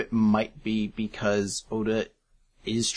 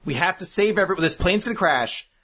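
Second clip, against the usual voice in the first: panicked; 5 semitones higher than usual. Retold or imitated. Heroes panicking in plane crash.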